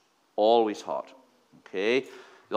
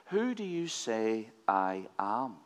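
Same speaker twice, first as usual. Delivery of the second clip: "Who do you say I am?" said slowly and a bit softer; slow, grave repeat of the question; slow weighty question; 2 semitones lower, 5 dB quieter, slower than usual. Shown as a demonstration. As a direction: let "who" hang, slow and deliberate.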